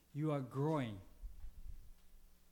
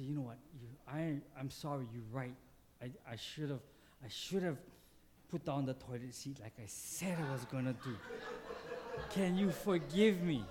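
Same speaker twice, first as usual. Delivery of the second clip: gentle apology; 4 semitones lower than usual. Pretend. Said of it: "and you say".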